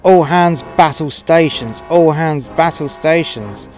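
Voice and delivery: loud, slow ship-wide order; shouted command. Acted. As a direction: bark it across the whole ship. Ship captain calls battle stations.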